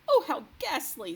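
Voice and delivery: loud, high horrified cry; cried out. A narrator's reading. The queen crying out over the dreadful news. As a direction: gasp it out in horror. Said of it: "the famous voice cried out".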